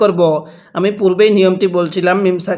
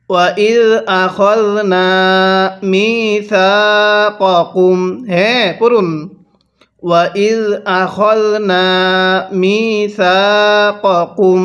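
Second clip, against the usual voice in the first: Quran recitation. Shown as a demonstration.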